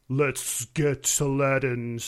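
slow hissing snake bro; drawn-out snake dude voice. Pretend. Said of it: "how about bro, a snake bro?".

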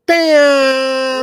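high, loud exclaim of amazement; sudden delighted yelp; impressed shout. Real, not acted. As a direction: holler it out, wowed. Reacting to one-hand leash hold.

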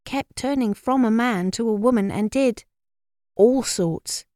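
air of authority. A narrator's reading. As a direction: pass it on with self-important authority. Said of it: "said with an air of authority".

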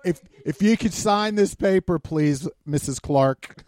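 lightly played child manager, high and loud; mock-official little boy, slowing at the end; six-year-old manager. Six-year-old asking for a signature, playfully imitated. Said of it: "when Luke rolls a crayon across the table".

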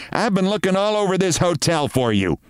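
wife scolding her dreamy husband; nagging wife. Acted. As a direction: tell him off impatiently.

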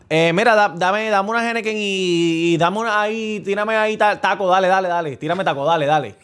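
lightly imitated drunk, stumbling over the order; mock a tipsy regular fumbling his order; a hint of slurry bar customer. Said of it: "está bien encasquillado y borracho".

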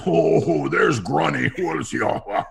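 hammed-up friend's holler; imitating an overheard friend. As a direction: call it out from across the set. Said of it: "I hear, I hear".

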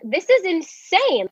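high, drawn-out mock yell. Woman arguing with him in the restaurant, mock yell. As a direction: imitate yelling in disbelief, without much volume. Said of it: "We're all yelling".

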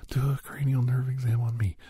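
whispered mock plea from an eager camper. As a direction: beg like a keen camper. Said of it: "everybody's like".

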